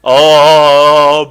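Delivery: slow loud drawn-out oh oh oh; hammed-up swoon. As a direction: overdo the temptation. Tempted by resources.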